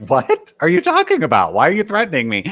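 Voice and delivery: high-pitched retold protest; mock indignation. Podcaster retells Jerry challenging Russell's threat, mock indignation. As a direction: push the pitch way up, imitating an affronted retort.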